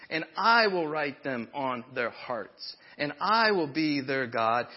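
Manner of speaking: scripture reading. Acted. Reads Hebrews aloud.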